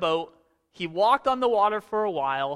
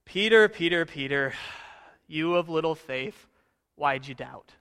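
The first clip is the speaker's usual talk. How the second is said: disappointed rebuke; 3 semitones lower than usual. Retold or imitated. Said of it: "with a very disappointed look".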